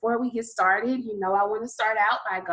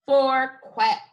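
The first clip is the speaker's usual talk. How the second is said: louder quack; 3 semitones higher, 6 dB louder than usual. Shown as a demonstration.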